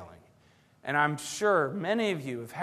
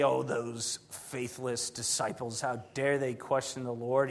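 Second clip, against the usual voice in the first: mock scoffing; 5 semitones lower, 8 dB quieter, slower than usual. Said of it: "we scoffers, we say".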